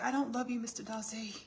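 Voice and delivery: high, hammed-up heroine; Elizabeth. Elizabeth tells Darcy she doesn't love him, mock haughty. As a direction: deny it in lofty mock melodrama.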